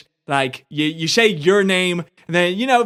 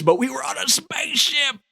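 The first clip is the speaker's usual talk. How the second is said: shouting; 9 semitones higher than usual. Real, not acted. Exasperated outburst at co-host.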